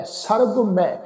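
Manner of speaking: ਸਰਬ ਮੈਂ with ਮੈਂ unnasalized; without nasal bindi. Shown as a demonstration. Teaching the sangat to say ਮੈਂ without the nasal. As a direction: say ਮੈਂ as a plain "mai" with no nasal sound. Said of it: "ਬਿੰਦੀ ਤੋਂ ਰਹਿਤ ਉਚਾਰਨ".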